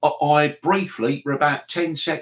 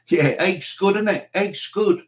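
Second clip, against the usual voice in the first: put-on Scouse accent; 5 semitones higher than usual. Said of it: "the Scouse version".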